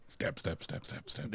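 soft, toneless rapid jabs; hushed mock stabbing; whispered stabbing effect. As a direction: whisper the word like repeated little thrusts. Voicing the claw jabs.

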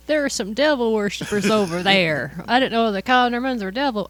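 a light put-on Southern accent; lightly drawn Southern accent, half joking. Joking about the neighbors, in a light Southern accent. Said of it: "why I'm talking in a Southern accent".

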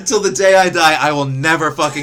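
high, loud, laughing through every word; wheezing with laughter, can't stop; real laughter spilling over the story; laughing hard. Real, not acted.

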